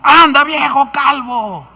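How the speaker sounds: high, loud, slow jeering shout; mocking yell. Boys jeering at the prophet, loud slow taunt. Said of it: "Le gritaban".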